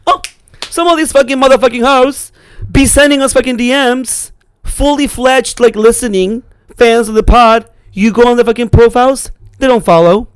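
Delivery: high-pitched scolding rant at fake fans; on the attack. Real, not acted. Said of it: "I'm not gonna attack in the way that she is".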